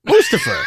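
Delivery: Mustafa as MOOS-tuh-fuh; first-syllable stress. Shown as a demonstration. Echoing the announcers' version, Mustafa stressed up front. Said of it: "towel-headed version of Christopher".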